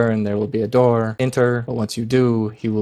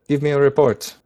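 called out in Goblin; 4 semitones higher, 4 dB louder than usual. Acted. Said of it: "in Goblin".

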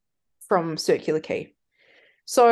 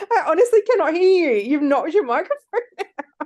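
raised voice; 8 semitones higher, 5 dB louder than usual. Real, not acted. S1 knocked her microphone out.

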